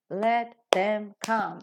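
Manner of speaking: slow line with only "come" stressed. Shown as a demonstration. Teacher models the sentence, stressing only "come". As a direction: keep "Let them" light and land on "come". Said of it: "are pronounced faster".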